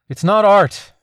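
muffled through a balaclava. A narrator's reading. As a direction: speak through cloth over the mouth. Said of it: "the balaclava muffled her voice".

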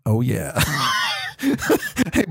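shout. Real, not acted. Shout after ASMR read.

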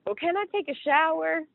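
high, plaintive ask; mock-pleading request to the nurse; pleading question. Pleading with nurse before surgery.

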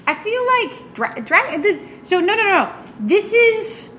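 high squeaky little creature, protesting fast; small creature voice. Acted. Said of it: "a much smaller voice".

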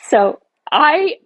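teary laugh. Real, not acted. Retelling breaking down, laughs.

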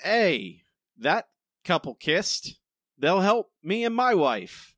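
lightly voiced eager dim jock; Buck. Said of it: "Buck sees them on the kiss cam and goes".

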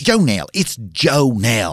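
Jonelle said with a J; name corrected. Acted. Host corrects guest on Jonelle. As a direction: stress the J in Jonelle.

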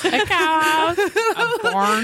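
laughing hard while talking. Real, not acted. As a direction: crack up through the words.

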